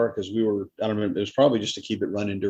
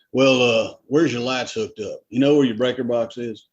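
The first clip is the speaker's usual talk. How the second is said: a light country drawl, slower; redneck drawl; 4 dB louder than usual. Retold or imitated. Young electrician in a customer's house, light redneck drawl. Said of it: "and I sounded like that".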